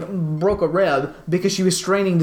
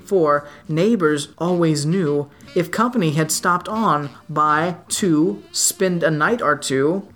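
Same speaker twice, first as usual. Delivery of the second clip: measured, lilting verse reading; poem recitation. Acted. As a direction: read it out in steady singsong metre. Reads a poem aloud.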